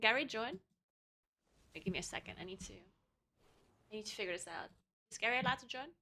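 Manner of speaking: soft, hushed half-whisper under the breath. Asking the others whether gary is allowed to join, half-whispering. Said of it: "I'm whispering".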